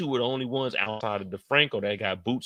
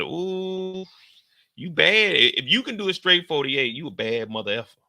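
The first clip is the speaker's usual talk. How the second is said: impressed whoop; 4 semitones higher than usual. Retold or imitated. Retelling his reaction to coworker.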